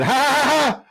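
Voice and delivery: high, loud hammed-up cartoon laugh; mock laugh. Streamer reading a chat laugh aloud, hammed-up high cackle. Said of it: "And he said".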